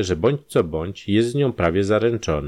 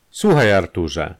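slow, louder, sharp address; sharp call; 5 dB louder than usual. Acted. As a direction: call out sternly, drawing it out. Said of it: "zawołała ostro".

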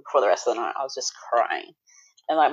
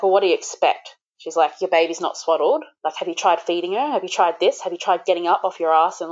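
mock a reproachful midwife firing questions; scolding; 3 semitones higher than usual. Midwife tells new mum off for crying baby, scolding.

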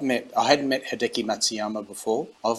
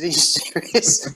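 drawn-out, higher and louder mock shock; slow, hammed-up "are you serious"; playful fake outrage at a friend; mock disbelief; 5 semitones higher, 4 dB louder, slower than usual.

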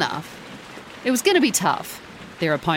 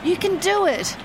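roaring; 9 semitones higher than usual. A narrator's reading. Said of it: "she roared".

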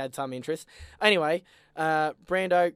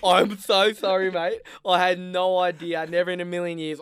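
mock grovelling apology; 3 semitones higher, 4 dB louder than usual. Apologising to his best mate on the dance floor, grovelling. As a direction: beg forgiveness with hands up, hammed. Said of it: "I went".

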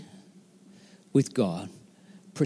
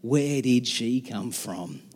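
awed wonder; 5 semitones lower than usual. Acted. Adam marvels at the new woman.

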